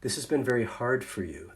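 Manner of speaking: soft, gentle empathy demo; softly reassuring a worried colleague; empathic. Shown as a demonstration. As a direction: say it quietly to calm a troubled person. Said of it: "Those are empathic statements".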